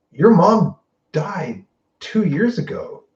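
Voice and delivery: lightly voiced doctor delivering the blow gently; doctor breaking bad news. Retelling the doctor telling Monica her mom died, slow grave voice.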